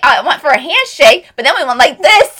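loud, high, laughing retelling; breaking into laughter. Real, not acted. Retelling the botched handshake, cracking up. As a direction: tell it as laughter takes over.

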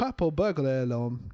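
purple burglar alarm with a light Scottish twist, burglar as "buhglah"; a lightly faked Scottish take on the tongue twister; trying the Scots version; mock Scottish accent. Shown as a demonstration. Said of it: "when you throw in the accent".

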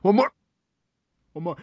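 holding back a sneeze, breathy; mid-sneeze, catching breath; between sneezes. Real, not acted. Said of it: "I'm gonna sneeze".

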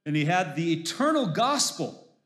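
solemn reading of Revelation; scripture reading. Acted. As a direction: read the vision with awe. Reads scripture aloud.

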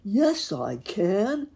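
loud, high, stretched horse voice; high, ringing horse's declaration; sudden neigh. A narrator's reading. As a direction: neigh the words out slowly and boldly. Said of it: "suddenly neighed the horse".

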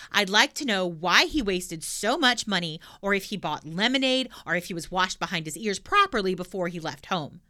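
put-on loud, bold little girl; cheeky girl voice. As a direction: blurt it out brashly. Pippi questions the sum.

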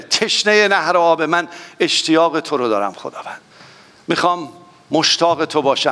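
earnest spoken prayer to God. Acted. Preacher praying aloud before the congregation, earnest prayer. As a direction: pray it aloud, heartfelt and unhurried.

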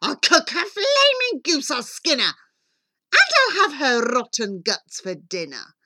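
enraged queen's yell, starting high and loud; raging storybook villain; wild yelling. A narrator's reading. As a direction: go absolutely wild with fury, then ease off. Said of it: "The queen went absolutely wild. She yelled".

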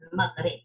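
Al-Maghrib said with Arabic sounds; native pronunciation. Shown as a demonstration. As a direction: demonstrate how Al-Maghrib is pronounced in Arabic. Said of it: "This is how we pronounce it".

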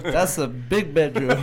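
laughing. Real, not acted. Laughing at the joke.

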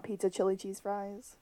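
voiceless whisper. Real, not acted. Admitting she wants the chili cheese fries, whispered. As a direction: confide it like a guilty secret. Confessing a food craving.

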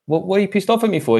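high, fast disbelieving comeback; incredulous retort. Retold or imitated. Retelling a surprised reply to Jake.

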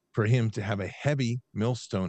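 "heavy" given deliberate weight; scripture reading weighted on "heavy"; stress on heavy. Real, not acted. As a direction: lean on the word "heavy". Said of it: "stress heavy".

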